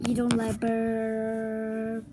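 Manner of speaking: words pushed out on a long burp. Shown as a demonstration. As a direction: talk through a burp, slowly. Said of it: "Like this".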